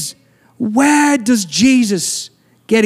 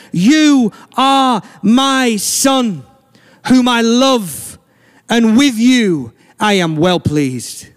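voice from heaven; much slower than usual. Retold or imitated. Voice from heaven quoted.

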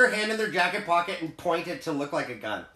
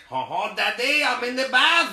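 silly bum voice; 5 semitones higher, 3 dB louder than usual. Acted.

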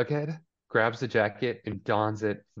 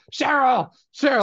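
much higher, louder calling out a name; mother calling her daughter, much higher and louder; mock shrill call; 7 dB louder than usual. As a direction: yell the name like a nagging mother. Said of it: "She's like".

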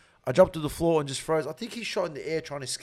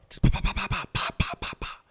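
gunshot sounds; 2 semitones higher than usual. Retold or imitated. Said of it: "imitating gunfire".

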